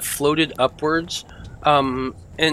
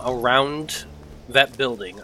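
usual speaking voice

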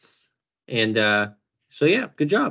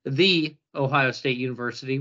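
"the" said as a long "thee", set apart; stress on THE; 3 semitones lower than usual. Shown as a demonstration. Host announcing number eight to co-host, pointed "thee" on "the". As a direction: lean on "the" as "thee" before Ohio State. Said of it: "which I hate when they correct everybody".

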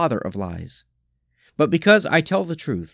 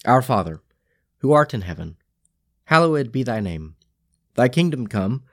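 measured, solemn recitation of the Lord's Prayer; spoken prayer. Real, not acted. Leading the congregation in the Lord's Prayer, solemn and measured. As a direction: pray it steadily and reverently, phrase by phrase. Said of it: "Let us pray".

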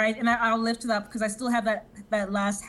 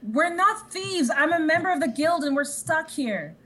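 indignant protest; 7 semitones higher than usual. Acted. Protesting to goblins in character.

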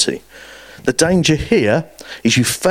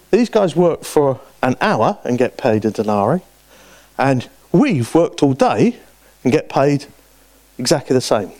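aggrieved complaint; 3 semitones higher than usual. Retold or imitated. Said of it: "kicked off".

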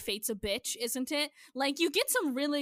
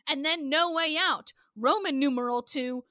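rising anger; 3 semitones higher, 4 dB louder than usual. Real, not acted. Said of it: "You got so mad".

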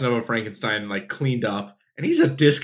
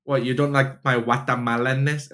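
mock Guatemalan accent. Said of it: "he plays someone who's from Guatemala".

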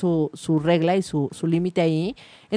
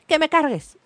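put-on toddler demanding, pitched up; whiny demand like a two-year-old; niña berrinchuda; 6 semitones higher than usual. Niña exigiendo en el súper. (niña caprichosa exigiendo)

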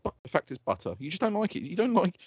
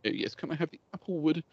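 ponce voice; 4 dB quieter than usual. Retold or imitated. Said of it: "You fucking ponce".

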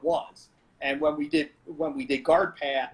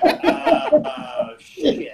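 Eduardo exasperated; 9 semitones higher, 7 dB louder, much slower than usual. Retold or imitated. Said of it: "And he was like".

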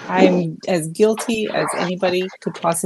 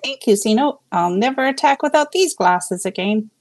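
put-on delighted old lady; 4 semitones higher than usual. Betty delighted.

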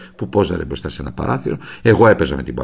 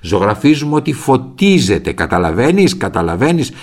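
louder, slow, insistent lecture; retold shouting; 3 semitones higher, 5 dB louder than usual. Father scolding his curious son, slow loud insistence. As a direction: drive the point home, slowly and loudly. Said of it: "άρχισε να φωνάζει".

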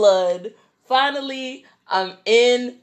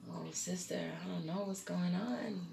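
weak, subdued; 18 dB quieter than usual. Retold or imitated. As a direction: confide it feebly to your sister. Retells weakly confiding in sister.

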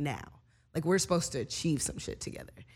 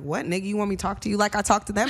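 quick, raised retort, imitating him; retorting friend; 4 semitones higher, 5 dB louder, faster than usual. Man challenging her complaint about his voice, mock-indignant retort. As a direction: throw the question back at speed, louder. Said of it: "you don't even talk to me the same".

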